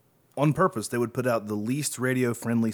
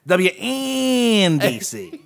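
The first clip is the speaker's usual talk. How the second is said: laughing; 9 semitones higher, 4 dB louder, much slower than usual. Pretend. Quoting call letters, laughing.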